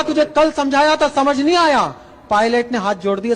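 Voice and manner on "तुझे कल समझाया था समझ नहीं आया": army officer scolds the returning pilot, louder; louder scolding army shout. Shown as a demonstration. Army scolding the repeat-offender pilot, louder shout. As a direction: bark the question at the pilot. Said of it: "अब उसका दर्द अगर आपकी आंखों में".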